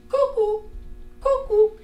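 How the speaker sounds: high sing-song cuckoo call; cri du coucou. Retold or imitated. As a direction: imitate the cuckoo bird, high and bright. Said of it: "puis qui dit". (imiter le coucou, voix aiguë)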